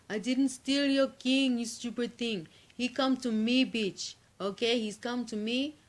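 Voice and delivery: loud, defiant yell at the rival queen; shouting back. A narrator's reading. Cat Queen yells back at the Mercurian Queen, defiant. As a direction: fling it back at her, loud and rude. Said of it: "she cries back to the Mercurian Queen".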